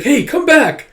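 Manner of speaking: high, loud call; calling after someone. Retold or imitated. Guardian to a child running off, calling out. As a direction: shout after a runaway kid.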